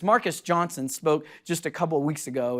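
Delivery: usual speaking voice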